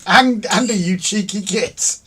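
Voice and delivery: loud but controlled mock reproach; toned-down exclamation. Shown as a demonstration. Repeats outburst with milder word.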